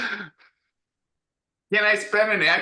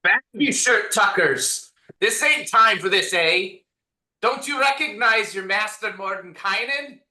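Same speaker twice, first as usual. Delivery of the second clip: a hint of a higher, bossy Mordenkainen, rising toward the end; 4 semitones higher than usual. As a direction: lightly play the wizard ordering servants about. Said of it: "you say that in your best Mordenkainen voice".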